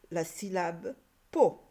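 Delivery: slow, pausing before a clear po; demonstrated syllable. Shown as a demonstration. Teacher showing pupils a syllable, po said slowly and separately. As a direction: set po apart as one sound. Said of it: "me donne le son po".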